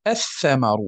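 الثمر as "ath-thamaru"; assimilated lam. Shown as a demonstration. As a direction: lean on the doubled tha in الثمر. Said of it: "اللام الساكنة في الثاء".

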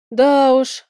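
upset and stretched out, lightly acted; dismayed drawl. A narrator's reading. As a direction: draw it out in dismay. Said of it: "расстроенно протянула я".

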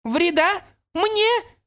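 high, loud outraged pixie cry; incredulous fury. Acted. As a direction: scoff in rage at the threat. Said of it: "перекосилось от ярости".

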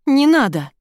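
loud, high shout of anger; angry shout. A narrator's reading. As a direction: stamp your foot and shout it down. Ira stamps, furious at Sasha.

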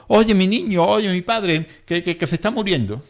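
imitating a pleading relative. Relative pressing the rescuer to help her father, mock frantic plea. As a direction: play the distraught relative, lightly. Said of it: "ni al que familiar".

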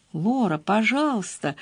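Dolly pleading softly with her friend. Acted. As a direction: quietly beg her to stop. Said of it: "с мольбой в голосе сказала Долли".

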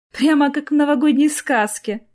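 put-on child-like delight at the tree. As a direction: marvel at the festive tree. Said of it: "восхитилась Арина".

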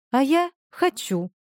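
slow, stubborn, angry retort. Acted. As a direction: dig in, angrily, drawn out. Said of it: "сердито развернулась к нему Маша".

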